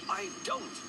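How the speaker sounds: very high indignant retort; squawked denial. A narrator's reading. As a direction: shoot up high to contradict. Escalating acted quarrel.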